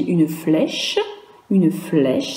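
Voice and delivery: «une flèche» with the voice dropping at the end; «flèche» said with a downward tune; falling tune. Shown as a demonstration. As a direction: let the pitch fall on «flèche». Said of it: "ça descend".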